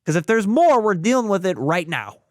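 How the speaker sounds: wife laying down the law, imitated; bossy. Wife on the table ordering the tech, bossy. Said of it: "like a boss, I hear her go".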